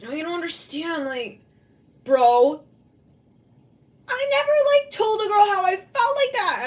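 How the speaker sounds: high-pitched plea building to a loud yell; mock freak-out. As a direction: wail it at your bro, hammed-up and loud. Voicing a freaked-out person to a bro.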